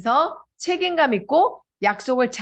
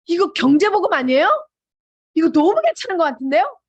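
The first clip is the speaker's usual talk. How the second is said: louder, higher retold enthusiasm; eager reaction; 4 semitones higher, 4 dB louder than usual. Prospect reacting at once to a business pitch, mock eagerness. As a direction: imitate a prospect jumping at the offer. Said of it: "그렇게 반응을 바로 보여서".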